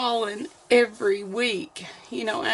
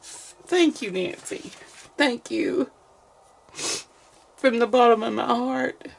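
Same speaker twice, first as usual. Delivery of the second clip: happy crying. Real, not acted. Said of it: "I don't mean to cry".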